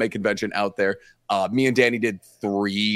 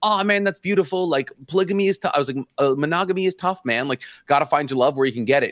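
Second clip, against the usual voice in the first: pitched-up supportive gushing; over-validating; 3 semitones higher than usual. Retold or imitated. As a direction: reassure him a bit too keenly. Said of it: "I have to be like".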